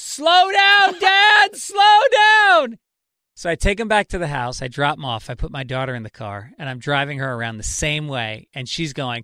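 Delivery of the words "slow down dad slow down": shrill, very loud, very high, stretched-out screaming yell. Retelling a fast drive while the son in the car screamed: imitating a son screaming. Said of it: "he was screaming".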